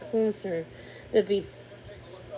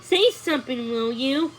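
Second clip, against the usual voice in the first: put-on higher, pleading young prince; a touch of begging; lightly voiced, coaxing plea; 4 semitones higher, 4 dB louder than usual. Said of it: "Cornelius begged".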